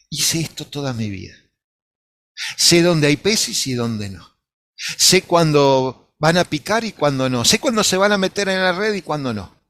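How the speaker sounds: más fuerte, marcando cada frase con aplomo; el pescador que presume que sabe más; Pedro autosuficiente. Retold or imitated. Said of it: "Me lo imagino a Pedro". (Pedro le responde al Señor con aire sabihondo y fuerte)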